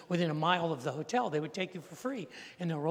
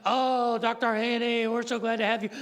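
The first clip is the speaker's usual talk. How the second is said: gushing British welcome, higher and louder; mock-posh British greeting, raised and loud; 5 semitones higher, 5 dB louder than usual. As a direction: play the delighted British manager greeting a VIP. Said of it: "not in a French accent, really British".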